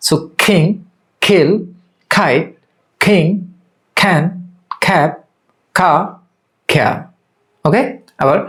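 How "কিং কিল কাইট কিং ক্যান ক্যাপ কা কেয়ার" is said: each k in "কিং, কিল" released with a puff; isolated model words, "কিং" as "khing"; aspirated K drill. Shown as a demonstration. Teacher drilling k sounds for learners, aspirated "কিং, ক্যান". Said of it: "একইভাবে আমরা এখানে".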